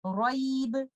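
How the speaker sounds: roib ending in a bounced ba; stop with qalqala. Shown as a demonstration. Teacher shows the pause on roib with qalqala. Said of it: "stop at this ba with the qalqala".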